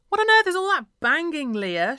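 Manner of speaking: high, loud angry shriek; mum's shriek. A narrator's reading. Mum storming into Leah's bedroom, shrieking. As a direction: shriek it at your daughter. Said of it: "shrieked my mum".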